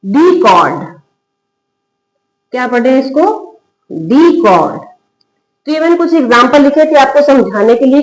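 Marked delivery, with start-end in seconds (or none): 0.0-4.8 model pronunciation. Shown as a demonstration. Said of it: "ये क्या है?".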